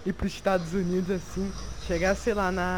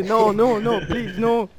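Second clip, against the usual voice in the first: pleading Argentine voice; 7 dB louder than usual. Retold or imitated.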